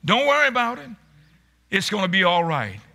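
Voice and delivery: lightly voiced mother hushing a child; a touch of a mother settling her upset child; mild soothing mother. Mother calming her upset child, gently soothing. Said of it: "the mother will often say".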